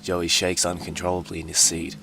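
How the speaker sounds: ordinary talk, nothing marked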